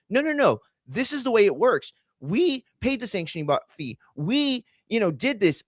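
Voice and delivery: high mocking voice, preachy; mocking Dana. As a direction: imitate a smug official lecturing.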